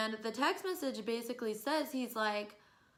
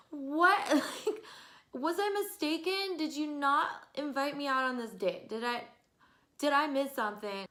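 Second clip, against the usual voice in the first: incredulous; 3 semitones higher than usual. Retold or imitated. Confronting date grinding with girl.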